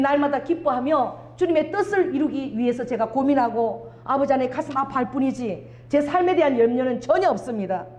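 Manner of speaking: earnest closing prayer to the Father; fervent prayer. Acted. Pastor leading the congregation in closing prayer, fervent. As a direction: pray with rising fervor.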